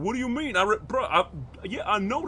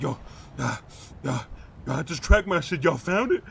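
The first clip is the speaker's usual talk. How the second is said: fake surprise; 4 dB louder than usual. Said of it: "I'ma run to my car and be like".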